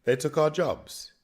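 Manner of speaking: hammed-up cartoon redneck; South Park impression. Quoting South Park to a friend, hammed-up cartoon redneck. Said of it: "That's from South Park".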